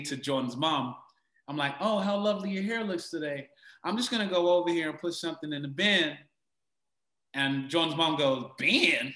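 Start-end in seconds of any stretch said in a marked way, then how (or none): 1.8-6.2 put-on higher, politely chatty American accent. Actor recalls chatting to director's mom, American accent. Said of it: "in character as Franklin with the American accent". 8.6-9.1 louder, rising one-word question; puzzled query. Retold or imitated. Actor imitates director's mom hearing a British word, puzzled query.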